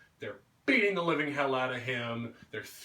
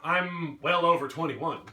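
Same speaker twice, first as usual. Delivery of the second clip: mocking girl voice; 5 dB louder than usual. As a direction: tease him as you walk off. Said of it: "they walk away going".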